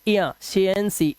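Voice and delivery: slow एया, शिएंसी with the i-a glide separated out; ia sound isolated. Shown as a demonstration. Teacher isolating a vowel sound, slow i-a in एया, शिएंसी. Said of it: "एया की आवाज है".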